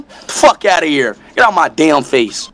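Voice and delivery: punchy mock dismissal, falling at each end; dismissive taunt. Streamer taunting in a voice memo, dismissive. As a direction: wave them off with a falling voice. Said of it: "just do a voice memo".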